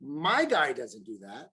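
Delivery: lightly voiced client's friend, low and unhurried; imagined friend. Mortgage guy voicing a client's friend, low and slow. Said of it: "I want their friends to say".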